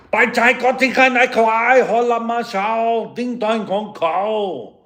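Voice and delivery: high, loud, sing-song made-up syllables, slowing at the end; mock foreign gibberish. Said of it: "there's this Asian dude going".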